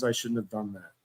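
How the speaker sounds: imitating her limp excuse under the breath; mock flat apology. Streamer mocking his ex's apology, muttered. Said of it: "all she says is".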